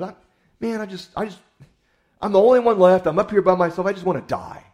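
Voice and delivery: high, loud anguished wail of self-pity; loud, high self-pitying lament; whiny despair. Retold or imitated. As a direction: cry out like a prophet who's given up. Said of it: "feeling sorry for himself".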